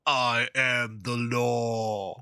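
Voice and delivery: slow, weighty pronouncement of authority; grand proclamation. Acted. Officer declaring her identity to the thugs, slow and grand. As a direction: lay down the law, drawn out.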